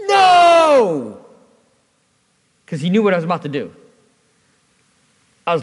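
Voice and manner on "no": long high shout, falling away; drawn-out "nooo" shouted loud and high; yelled no. Retold or imitated. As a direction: imitate a panicked yell from the sidelines. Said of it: "he yelled out".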